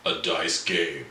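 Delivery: announcer voice. Pretend. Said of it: "I'll do my announcer voice".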